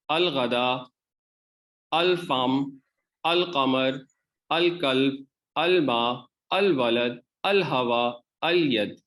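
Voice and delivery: each word with a clear अल lam; Arabic lunar words, lam spoken; lunar letter drill. Shown as a demonstration. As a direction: read each with lam sounded, slow drill. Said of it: "इसमें लाम को हमने पढ़ा है".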